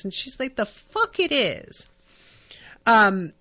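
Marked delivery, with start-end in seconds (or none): 0.6-1.9 whispered retort. Retold or imitated. Retelling a sharp comeback.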